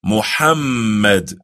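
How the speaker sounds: Muhammad said slowly, a breathy h and a held mm; Muhammad, slow and careful; slow model pronunciation. Shown as a demonstration. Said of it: "Can you say that?".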